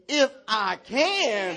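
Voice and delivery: loud, high, very drawn-out defiance; with attitude. Shown as a demonstration. Preacher has them point at the lying spirit, with attitude. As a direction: throw it at the ground, stretching each word. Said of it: "Point to the ground with attitude".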